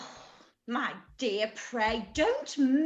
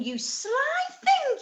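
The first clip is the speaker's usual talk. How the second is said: teasing; 10 semitones higher, slower than usual. Acted. Mother teases her daughter.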